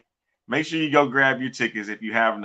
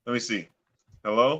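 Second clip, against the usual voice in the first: muffled like through a wall; 2 semitones lower, 6 dB quieter than usual. Real, not acted. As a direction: sounds muffled on the line. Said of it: "Arlington sounds like a muffled mess".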